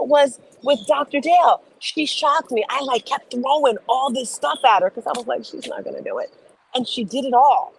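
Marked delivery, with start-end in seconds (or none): 5.4-6.3 whispered, quiet and unvoiced; whispered thought. Recalling her private doubt about the client, whispered. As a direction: breathe the doubt out under your breath.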